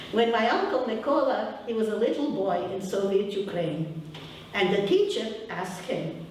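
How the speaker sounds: put-on Ukrainian accent. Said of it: "I'll say it with my accent".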